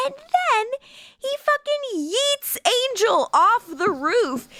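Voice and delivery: high excited telling. Real, not acted. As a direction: tell it bursting with glee. Excited retelling.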